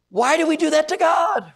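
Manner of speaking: slow, high shouted question; preaching shout. Real, not acted. Preacher to his church, shouting the question slowly. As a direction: hammer the question home, loud and slow.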